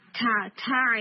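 تھا with a breathy h after the ت; aspirated تھا; wrong aspirated taa. Shown as a demonstration. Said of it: "تھا نہیں بولنا".

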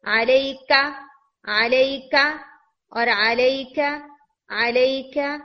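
अलैका with an airy puff on the ka; kaf with air. Shown as a demonstration. Teacher showing the breathy kaf. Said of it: "जहर और हम्स है".

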